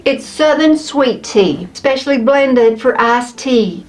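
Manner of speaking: slow Southern American drawl; Southern accent. Acted. Reading the tea label to viewers, in a Southern accent. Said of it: "That was my accent".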